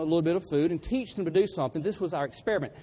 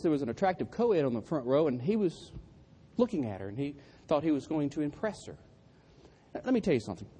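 usual speaking voice

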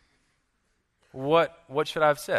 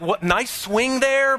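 high, slow comic reply; retold amused comeback; 8 semitones higher, slower than usual. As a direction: stretch it out, pitched up for laughs. His amused comeback to her guess.

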